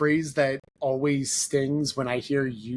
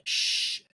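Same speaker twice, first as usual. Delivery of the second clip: hushing sound. Retold or imitated. Acting out biting back a reply.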